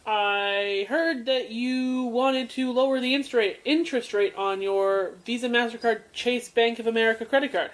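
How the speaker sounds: lightly voiced phone salesman; scammer's pitch. Podcaster retelling a phone scammer's spiel, mock sales pitch. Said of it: "so he says".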